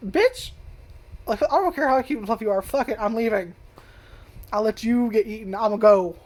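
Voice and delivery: bail out yelling at them; hammed-up fleeing freakout; outraged yell. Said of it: "I'm just like".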